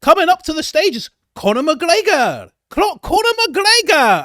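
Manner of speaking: high, loud mock fight announcer; ring announcer. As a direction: boom it out like a ring MC. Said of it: "I never say".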